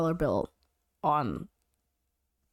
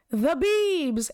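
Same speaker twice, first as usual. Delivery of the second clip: contest announcer; 4 semitones higher than usual. Retold or imitated. Host announcing the contestant to crowd.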